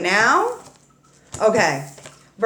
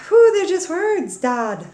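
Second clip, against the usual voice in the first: cheeky retort; 9 semitones higher, 5 dB louder than usual. Acted. Talking back to dad.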